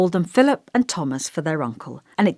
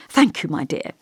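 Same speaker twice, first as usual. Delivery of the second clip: earnest. Acted. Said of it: "he said earnestly".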